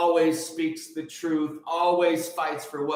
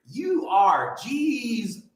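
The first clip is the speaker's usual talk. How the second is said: high, shouted Jesus; preaching shout; 7 semitones higher, much slower than usual. Real, not acted. To his viewers, preaching and shouting the name Jesus.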